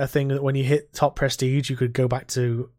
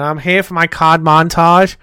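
mock troll voice; 2 semitones higher, 10 dB louder than usual.

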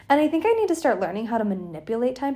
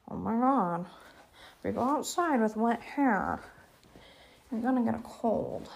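imitating parents; 5 dB quieter than usual. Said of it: "I don't know why I was talking like that".

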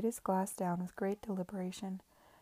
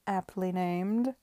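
guffawing; 6 dB louder, slower than usual. Acted. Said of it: "guffawed Babington".

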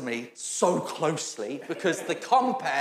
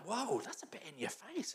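mock surprise; 3 semitones higher, 16 dB quieter than usual. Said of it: "I'm like".

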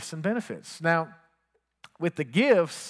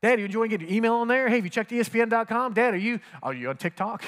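higher and fast, rattling off questions; eager son; 4 semitones higher, faster than usual. Retold or imitated. Son excitedly quizzing his dad about iPhone apps, fast and high. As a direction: pepper him with questions, all enthusiasm. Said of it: "I was like".

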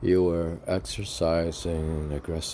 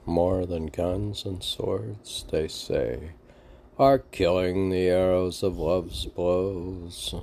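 dramatic lyric recitation; slower than usual. Acted. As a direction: declaim it like a tragic ballad.

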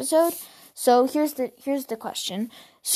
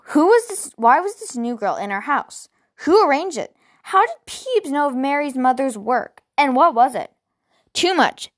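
agitated; 4 semitones higher than usual. Acted. Ada overwhelmed, upset.

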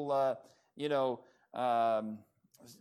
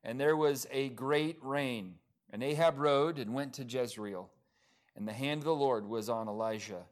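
measured reading, settling lower toward the close; scripture reading; 4 semitones lower than usual. Acted. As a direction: bring the Bible passage to a close.

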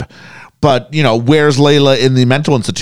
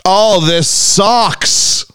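dismayed groan; 6 semitones higher, much slower than usual. Real, not acted. Reacting to disliked plot turn.

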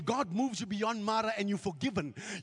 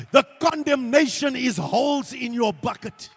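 loud, emphatic preaching; shouted; 9 dB louder than usual. Acted. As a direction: hammer it home. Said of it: "I need somebody to understand".

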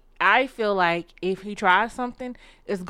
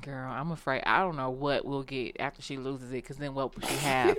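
hushed mock dread; 8 semitones lower, 10 dB quieter than usual. Real, not acted.

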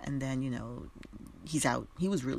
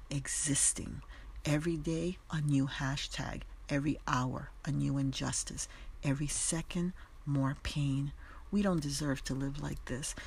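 solemn poem reading. Shown as a demonstration. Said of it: "this is how it reads".

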